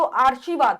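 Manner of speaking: आशीर्वाद with the r moved before 'shee', 'aarshivaad'; mispronounced आशीर्वाद. Shown as a demonstration. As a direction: say आशीर्वाद wrongly as 'aar-shi-vaad'. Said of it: "अगर हम इसको पढ़ें तो".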